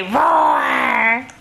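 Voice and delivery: a shouted roar that rises at the end; playful shouted roar; lion roar. Pretend. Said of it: "Does the lion say".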